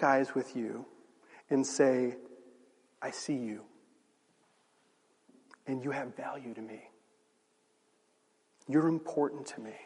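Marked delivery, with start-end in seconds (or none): 3.0-9.8 quiet, heartfelt assurance; tender reassurance. Acted. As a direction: say it gently, with pauses to let it land. Voicing someone who tenderly affirms you.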